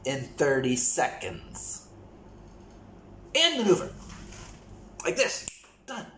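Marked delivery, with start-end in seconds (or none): 3.3-6.1 excited. Real, not acted. Showing how a missile moves.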